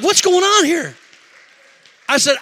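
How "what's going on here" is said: high, loud, incredulous question; retold bewilderment at full volume; amazed. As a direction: cry out in astonishment. Amazed at his own excitement.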